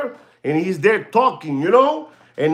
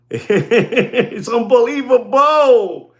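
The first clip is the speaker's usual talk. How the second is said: laughing; 3 semitones higher, much slower than usual. Real, not acted. Laughs at the watch.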